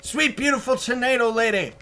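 high, lilting sweetheart call; mock-devoted high voice; playful calling out. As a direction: croon endearments from afar, high-pitched. Calling to girlfriend in tornado.

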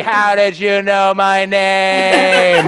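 slow, stretched puzzled question; baffled drunk woman. Retold or imitated. Drunk woman amazed he knows her name, slow. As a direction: drag it out, amazed. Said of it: "she was like".

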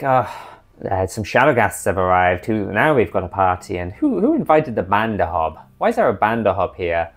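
a lightly voiced sarcastic lich; mild mock annoyance at the uninvited guests; understated dry lich quipping; Azalin voice. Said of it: "let me try and do my Azalin voice".

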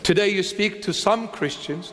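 "some" picked out with deliberate emphasis; stress on SOME. Shown as a demonstration. Preacher singling out some Christians, stressing "some". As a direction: lean on the word "some". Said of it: "make an emphasis on the word some".

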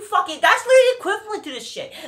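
cracking up at how absurd it is; laughing in disbelief. Real, not acted. Laughs mid-rant in disbelief.

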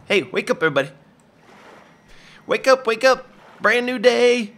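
loud, high morning wake-up call; cheerful wake-up call. Pretend. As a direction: rouse everyone cheerfully. Calling everyone to wake.

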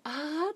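high mock bot "あー"; imitating bot's laugh. Streamer mimicking the updated bot voice to chat, high mock cry. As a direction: squeak out the bot's eerie sound. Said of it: "超生々しいよね".

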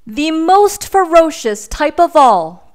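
high and loud proclamation; hammed-up boast; dramatic declaration. A narrator's reading. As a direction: declare it grandly to scare them. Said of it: "declared the boy".

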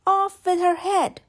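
loud, high furious command; angry royal shout. Acted. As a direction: bellow it like a tyrant queen. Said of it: "cried the Queen".

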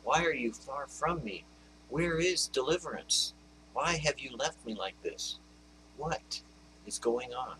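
understated plea to an absent God; anguished cry like David. Retold or imitated. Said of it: "I've cried out like David".

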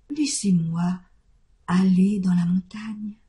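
hushed, breathy begging; whispered plea. Acted. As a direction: ask it in a near whisper, timid. Goat begs to leave.

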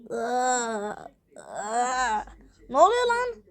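surprised. Acted. Character startled by the robot, surprised. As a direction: blurt it out, caught off guard.

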